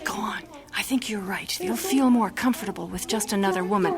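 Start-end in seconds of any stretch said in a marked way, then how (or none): 0.0-1.6 hushed whisper; soft whisper. Acted. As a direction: keep it secret. Whispered reply.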